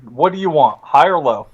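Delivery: ordinary talk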